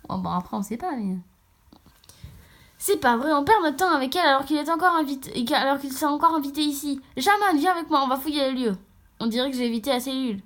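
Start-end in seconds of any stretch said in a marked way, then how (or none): 2.8-8.8 irritated, pressing delivery; acted impatience, pushing through the line; annoyed character. Angry character complains of wasted time and orders Jamon along, annoyed.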